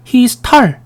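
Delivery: "He's tall" with an open "ah" vowel, tal; "He's tall" said as "hee-seu tal", high-pitched; wrong Korean-style pronunciation. Shown as a demonstration. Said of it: "이렇게 얘기 안 하죠".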